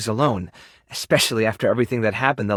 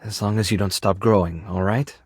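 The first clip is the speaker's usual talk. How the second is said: earnest, taking time over it; sincere; 4 semitones lower than usual. Acted. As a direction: gently offer a second chance. Offering friendship with a condition.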